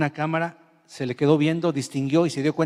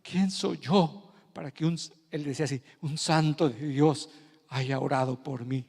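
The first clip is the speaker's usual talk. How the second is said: retold crying. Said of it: "este hombre lloraba diciendo".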